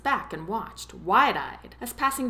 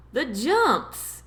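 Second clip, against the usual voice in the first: yelling; 5 semitones higher than usual. A narrator's reading. Tom yells into the wind while driving, yelling. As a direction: throw it out into the wind. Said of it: "he yelled into the wind".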